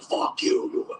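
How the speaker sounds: mocking critics who went off on LeBron; mock angry critics. Critics mocked in a hushed, unvoiced voice. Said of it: "they fucking went off on him".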